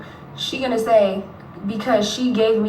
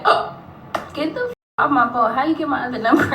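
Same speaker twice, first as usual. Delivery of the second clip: retold irritated brush-off; 5 semitones higher than usual. Snapping at the blocked caller, mock irritated. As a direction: shoo him off the phone, hammed-up. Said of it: "I'm like".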